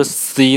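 "C" with a sharp s straight into ee; wrong si demo. Shown as a demonstration. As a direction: say "C" like the English letter, as the mistaken reading. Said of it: "怎么不是C呢". (示范错误读音“C”，像英文字母)

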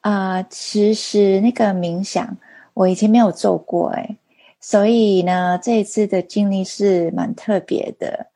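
Mandarin with a non-native accent; halting Mandarin, foreign accent; foreigner speaking mandarin. Real, not acted. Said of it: "因为我中文不太好".

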